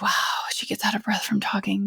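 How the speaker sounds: whispered, teasing imitation of a listener; mock listener whisper. Host mocks listeners in a whisper, teasingly. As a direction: hush it like a puzzled listener. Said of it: "so you're like".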